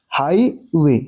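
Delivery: हाईवे split, stressed हाई then light वे; long हाई, short unstressed वे in हाईवे; stress on first syllable. Shown as a demonstration. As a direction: break हाईवे in two, weight on हाई. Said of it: "हम किसको stress कर रहे हैं".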